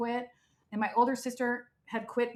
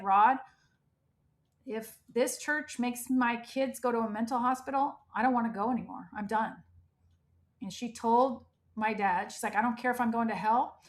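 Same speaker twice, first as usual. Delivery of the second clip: retold crying mother. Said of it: "she was crying and she was like".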